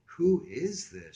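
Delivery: high, slow, loud demand; fierce tigress. Acted. Woken woman demands caller's name, high fierce tigress voice. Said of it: "she was a real tigress".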